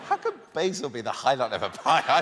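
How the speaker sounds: outraged Brooklyn local shouting down fancy toppings; Brooklyn accent. Shown as a demonstration. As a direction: ham up a Brooklyn pizza critic. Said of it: "read it with a Brooklyn accent".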